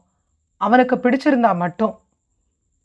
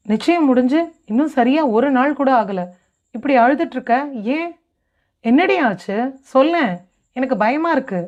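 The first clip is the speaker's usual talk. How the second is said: mildly anxious, slightly raised voice; worried mother; 3 semitones higher than usual. Acted. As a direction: press her for an answer with a touch of alarm. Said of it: "கலவரமாய்". (லேசான பதற்றத்துடன் கவலையான குரல்)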